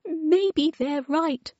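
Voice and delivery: high, very slow tearful voice; sobbing. Acted. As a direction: drag the words through tears. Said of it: "sobbed Wilma".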